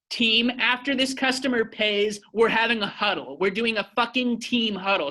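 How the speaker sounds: high pushy yelling at the team; imitating a freaking-out manager, voice up high; mock frantic yell. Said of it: "just freaking out".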